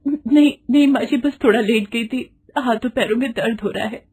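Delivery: high, anxious denial; frightened. Acted. Frightened bride excusing herself to her mother-in-law, high and anxious. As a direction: hurry to excuse yourself, scared. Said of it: "Gita घबरा कर बोलती है".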